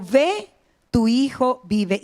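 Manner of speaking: seguridad serena, "tu hijo vive" pausado; voz de convicción. Retold or imitated. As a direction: dilo lento, con plena seguridad. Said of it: "con esa voz de convicción". (convicción pausada, citando a Jesús)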